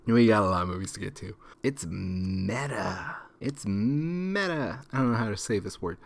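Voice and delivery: tipsy, a little slurred; two beers in, loosening up. Real, not acted. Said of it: "I'm so drunk right now".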